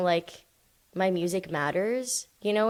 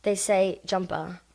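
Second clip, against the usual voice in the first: slow British-accented word demo; slower than usual. Shown as a demonstration. Guest showing how British people talk, British accent. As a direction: say it the British way, lingering on jumper. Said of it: "I love how British people talk".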